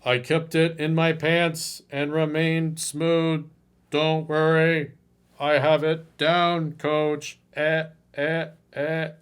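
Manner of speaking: slow, smug imitation of the client; mock smooth client. Coach imitating client who stayed smooth and polite. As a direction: play the naive client proud of himself. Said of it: "what does he say".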